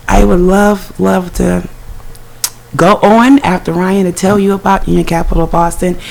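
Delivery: hoarse, scratchy speaking voice; talking through a scratchy throat. Real, not acted. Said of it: "my scratchy voice".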